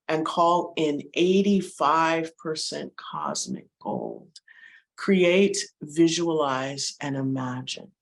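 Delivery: unhurried meditation guide, lingering on key words with long pauses; guided meditation. Acted. Guide leading listeners into breath and heart, measured meditation voice. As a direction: ease listeners into stillness, step by step.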